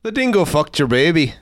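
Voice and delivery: put-on Irish guy accent; lilting imitation Irish accent. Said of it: "an Irish guy".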